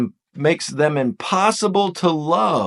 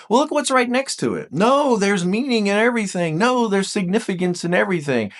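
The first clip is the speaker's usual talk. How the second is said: raised, lightly voiced inner voice of a four; earnest retort in a higher voice; a four answering back; 5 semitones higher than usual. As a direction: play the four insisting everything has meaning. Voicing a four's inner reply.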